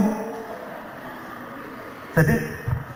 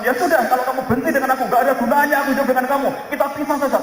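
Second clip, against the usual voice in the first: quick, raised, fed-up retort; angry husband; 6 semitones higher, faster than usual. Retold or imitated. Husband telling angry wife to separate, mock angry. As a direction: snap back that it's over, mock angry. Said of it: "Lalu Anda dengan marah mengatakan".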